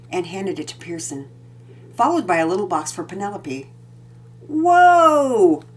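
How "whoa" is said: put-on higher, louder delighted gasp of a boy; a kid amazed by a present; excited whoa; exclaiming. A narrator's reading. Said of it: "Pearson exclaimed".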